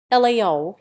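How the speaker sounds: mock Cockney greeting, lightly done; a playful hint of Cockney; Cockney accent. Teacher greeting his students in a playful Cockney accent. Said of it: "he said in a Cockney accent".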